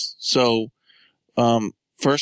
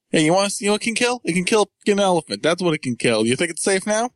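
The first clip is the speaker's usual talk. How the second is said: excited showman; 6 semitones higher, faster than usual. Retold or imitated. Voicing Edison showing off.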